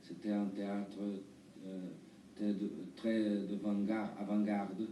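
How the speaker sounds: halting Brazilian-accented French; foreign accent in french. Real, not acted. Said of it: "Pardon, mon français, euh, n'est pas très bien".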